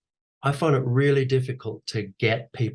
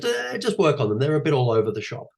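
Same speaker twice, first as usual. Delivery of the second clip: much higher, offhand brush-off; pitched-up careless dismissal; dismissive director; 5 semitones higher, 3 dB louder than usual. Retold or imitated. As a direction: shrug it off like a busy director. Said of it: "He goes".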